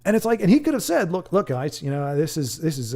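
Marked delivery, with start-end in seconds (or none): 1.1-3.0 put-on loose stab at an Aussie or New Zealand accent; lightly put-on Australian voice, imitating a director pleading his case; attempted Australian accent. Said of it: "I don't know why I'm doing Australian".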